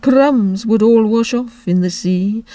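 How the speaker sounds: slow, weary turtle voice; Mock Turtle. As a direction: drag the words out sleepily.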